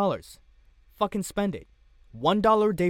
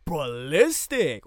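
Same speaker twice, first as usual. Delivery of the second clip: spoiler troll. Retold or imitated. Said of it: "That's my impression of a troll that wants to spoil everything".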